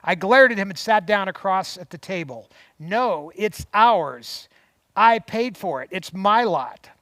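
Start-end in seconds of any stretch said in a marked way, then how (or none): 2.8-6.9 louder, firm insistence; defiant anger. Retold or imitated. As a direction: plant your feet and claim what's yours. Wife glaring, defending her property.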